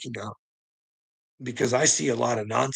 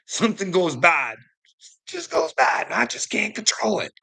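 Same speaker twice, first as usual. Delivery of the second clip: rising agitated plea; 8 semitones higher than usual. Retold or imitated. His fear of the shot.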